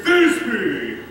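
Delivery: small voice calling Thisbe; monstrous little voice. Shown as a demonstration. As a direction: call Thisbe in a tiny voice. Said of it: "I shall speak in a monstrous little voice".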